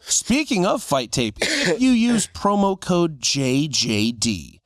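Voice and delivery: slow, deliberate sponsor plug; ad read. Acted. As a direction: read it like a promo spot. Reads sponsor promo code.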